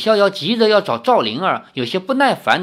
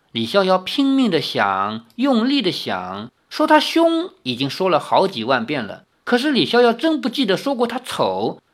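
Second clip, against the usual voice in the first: expressive, measured novel narration; story narration; 4 semitones higher than usual. A narrator's reading. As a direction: read the tale aloud with lively intonation.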